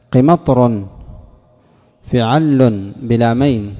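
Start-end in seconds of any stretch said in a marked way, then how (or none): 2.0-3.7 slow "فعل" with the لام held double; doubled lam. Shown as a demonstration. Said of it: "لام مشددة بلامين". ("فعل" بلام مشددة، ببطء)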